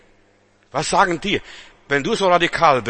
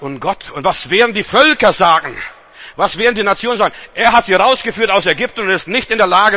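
Moses pleading loudly; 4 semitones higher, 5 dB louder than usual. Acted.

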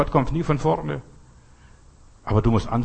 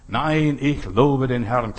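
slow, categorical no to the devil; firm refusal; slower than usual. Shown as a demonstration. Preacher showing how to tell the devil no, firm and slow. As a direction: plant your feet and refuse, slowly. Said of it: "Nein sagt, kategorisch, energisch".

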